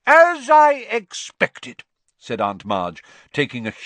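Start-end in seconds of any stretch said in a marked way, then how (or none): 0.1-1.8 high, loud, slow and self-satisfied; haughty scorn. A narrator's reading. Aunt hearing the father was jobless, haughty scorn. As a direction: draw it out loudly in triumphant contempt.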